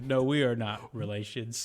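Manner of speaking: Forrest Gump voice. Retold or imitated. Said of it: "And Forrest Gump goes".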